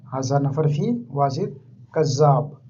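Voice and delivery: each word of हाजा नफर फी वाजिद कज़्ज़ाब set apart, slowly. Shown as a demonstration. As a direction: spell it out slowly so learners can copy. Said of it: "teacher repeats it for learners". (धीरे, साफ़ साफ़ दोहराते हुए)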